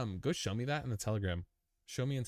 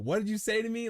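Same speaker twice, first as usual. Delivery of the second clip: higher, louder mock challenge, as if offended; mock confrontation; 13 semitones higher, 4 dB louder than usual. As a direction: play it as a fake tough-guy retort. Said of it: "I had, like".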